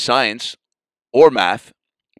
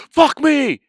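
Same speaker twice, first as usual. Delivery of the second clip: sudden high yelp, louder; startled yelp; 5 dB louder than usual. Retold or imitated. Pigeon flies at his face, startled high yelp. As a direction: blurt it out as a bird skims your face. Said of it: "and I go".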